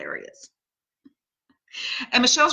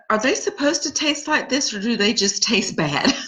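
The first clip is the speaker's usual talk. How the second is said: put-on high childlike voice, slowing at the end; little niece's voice; 5 semitones higher than usual. Niece Lila asking about the dumplings, high childlike voice. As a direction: play the picky kid doubting the food. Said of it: "she's like".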